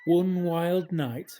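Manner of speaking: dramatic opening. A narrator's reading. Storm night opening.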